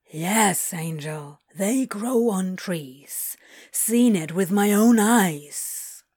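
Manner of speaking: lightly voiced demon, slow and emphatic; Crowley, insistent.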